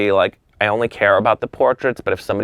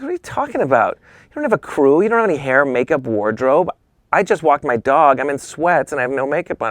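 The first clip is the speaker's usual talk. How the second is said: higher-pitched imitated objection; lightly acted flustered protest; mock protest; 5 semitones higher than usual. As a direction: list the objections in a raised, incredulous pitch. Retold protest at an instant shoot.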